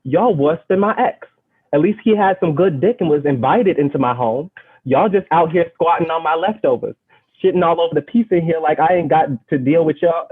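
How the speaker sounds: put-on amateur British accent, pitched a bit high. Poet scolds the ants in her kitchen, in a shaky attempt at a British accent. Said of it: "I have to do this in a British accent".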